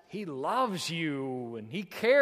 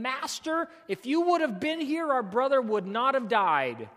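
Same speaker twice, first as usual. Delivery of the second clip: Mary and Martha; 5 semitones higher, 4 dB louder than usual. Acted. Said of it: "they both said to him".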